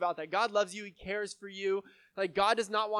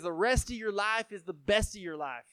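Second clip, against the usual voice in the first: imitated Southern preacher's drawl. Pastor quoting an upbeat guest preacher, in a mock Southern drawl. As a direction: put on a light Southern accent. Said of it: "had a really strong Southern accent".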